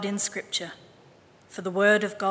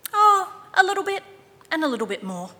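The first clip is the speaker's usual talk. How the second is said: coy mother; 8 semitones higher, 6 dB louder, faster than usual. A narrator's reading. Mother voiced in story.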